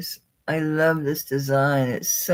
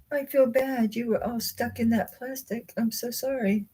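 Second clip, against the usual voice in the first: talking to ring; 9 semitones higher, 4 dB quieter than usual. Real, not acted. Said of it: "I'm talking to it".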